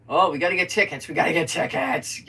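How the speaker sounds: loud, quick urgent chatter; retold eagerness. Vlogger recounting needing movie tickets, eager and urgent. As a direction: rush it out, urging everyone along.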